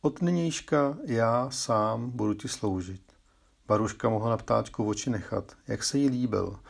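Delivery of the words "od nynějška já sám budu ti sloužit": a small bird talking like a person, pitched up; little bird speaking. Acted. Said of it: "zaštěbetá lidskou řečí".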